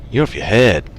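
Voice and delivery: slipping into a mock American accent; "head" stretched in a put-on American accent. Viewers telling Kev he's crazy, lightly imitated American accent. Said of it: "going back American again, sorry".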